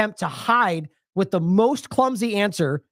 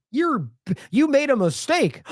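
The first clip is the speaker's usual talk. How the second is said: mock timid scolding; 7 semitones higher, slower than usual. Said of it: "you know, just".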